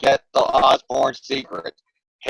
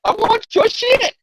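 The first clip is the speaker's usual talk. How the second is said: high, slow, mock villain voice; goblin demand; 4 dB louder, slower than usual. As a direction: stretch it out like a cartoon goblin. Acting Hobgoblin demanding.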